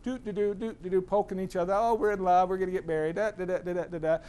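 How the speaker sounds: singsong mock cheer; carefree lovebirds. Carefree courting couple, acted.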